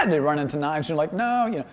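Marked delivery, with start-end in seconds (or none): 1.1-1.5 sharp high no; pitched-up parental no; alarmed parent. Retold or imitated. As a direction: stop the kid with a high no. Parent stopping child.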